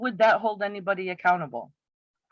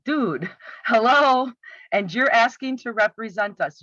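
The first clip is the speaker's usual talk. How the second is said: incredulous. Real, not acted. Critic reacting to a candidate's video slip, incredulous. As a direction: stretch it out in mock disbelief.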